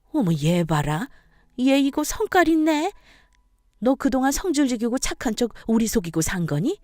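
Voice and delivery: lightly voiced mother-in-law, affronted; a hint of an indignant elder; taken-aback mother-in-law. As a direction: react in scornful surprise at her defiance.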